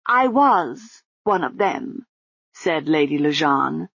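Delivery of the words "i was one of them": slow, higher, muffled woman; muffled lady's voice. Acted. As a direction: calmly urge her along, muffled. Lady Lejeune.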